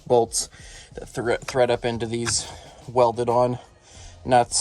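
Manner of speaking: talking while lying under car; strained, from under the car. Real, not acted. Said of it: "So I'm under the car right now".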